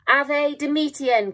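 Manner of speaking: high, slow, strangled talking-bird voice. Acted. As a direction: squawk it like a choking raven. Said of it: "came a strangled voice".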